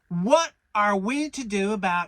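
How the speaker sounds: squeaky little Piglet, pitched well up; tiny eager piglet; high small-animal voice. A narrator's reading.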